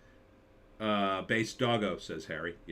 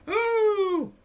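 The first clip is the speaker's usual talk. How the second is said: loud high exclamation; exasperated oh; 7 dB louder than usual. Real, not acted. Reacting to a college acquaintance's post, loud exasperated exclamation. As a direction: burst out in disbelief.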